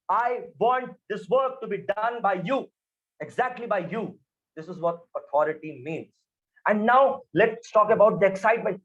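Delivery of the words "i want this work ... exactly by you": authoritative. Shown as a demonstration. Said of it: "my volume will go up suddenly and I will start speaking very slow".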